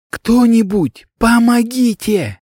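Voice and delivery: high, drawn-out cry for help; desperate plea. Acted. Girl shaking her dead master, pleading desperately for help. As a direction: call into the empty hall, close to breaking.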